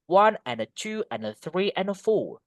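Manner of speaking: stretched "One", "two", "three", "four" with quick linking "and a"; rhythmic sing-song. Shown as a demonstration. Teacher showing the tune to class, rhythmic sing-song stress. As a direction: lilt through it, landing on each number. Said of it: "Ada, ada nadanya gitu".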